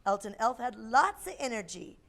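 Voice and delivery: put-on lively storybook voice for kids; reading to children. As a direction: read a picture book aloud.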